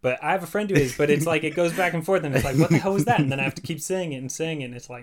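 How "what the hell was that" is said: mock exasperated. Friend reacting to bad accent.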